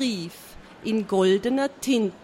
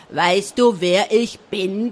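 slow, mildly raised angry challenge; angry yelling; 3 semitones lower, 5 dB louder, slower than usual. A narrator's reading. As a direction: challenge the king with restrained bellowing. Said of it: "brüllte der den König an". (wütend, leicht erhoben angebrüllt)

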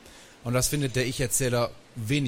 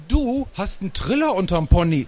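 high, loud telling-off; granny's loud, high-pitched rebuke; scolding granny; 9 semitones higher, 6 dB louder than usual. A narrator's reading. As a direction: scold them loudly over the bus microphone. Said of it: "sagte Oma Inge durchs Mikrofon".

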